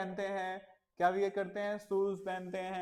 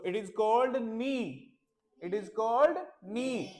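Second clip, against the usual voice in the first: very slow, clear teacher sentence; teacher modelling a sentence very slowly; slow model sentence; much slower than usual. Shown as a demonstration. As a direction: say it slowly so the kids can repeat. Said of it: "model sentence for kids".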